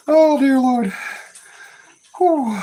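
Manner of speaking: high, loud wail after laughter; exhausted from laughing. Real, not acted. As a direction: wail it, spent from a real laughing fit. Recovering from a long laughing fit.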